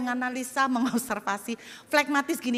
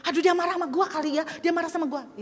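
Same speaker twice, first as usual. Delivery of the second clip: fast, rising, anxious rambling; mock panic; 3 semitones higher, much faster than usual. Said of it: "Dia udah panik duluan".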